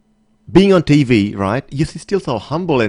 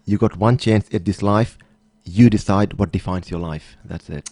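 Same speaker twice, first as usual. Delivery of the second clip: sincere; 4 semitones lower, 3 dB quieter, slower than usual. Real, not acted. Sincere parting message, slow.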